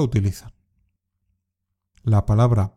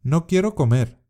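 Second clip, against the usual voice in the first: "No quiero comer." said higher, with "quiero" stressed and falling; sulky refusal; 5 semitones higher than usual. Shown as a demonstration. Teacher demonstrating a sulky refusal for learners to repeat. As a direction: complain like a child refusing food. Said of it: "Repite después de mí".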